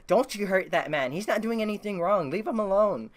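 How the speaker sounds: retold outcry from an angry crowd; crowd's mock protest. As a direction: plead up high on behalf of someone. Crowd rallying to defend a man.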